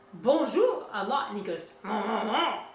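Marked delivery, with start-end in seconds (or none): 0.1-0.9 lightly imitated French candlestick; a hint of a French cartoon candlestick; candlestick character. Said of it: "they have a candlestick that says". 1.8-2.6 lightly imitated French cartoon character; a hint of a jaunty French candlestick. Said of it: "'cause he's French".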